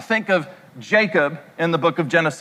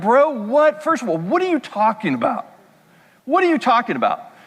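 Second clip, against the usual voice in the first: a dad brushing off his son, fast and higher; mock-baffled father waving it off; imitating his dad; 4 semitones higher than usual. Preacher voicing his dad dismissing him, fast and baffled. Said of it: "he would be like".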